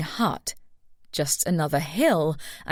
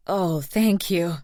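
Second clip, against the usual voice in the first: gushing; slower than usual. A narrator's reading. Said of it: "Audrey gushed".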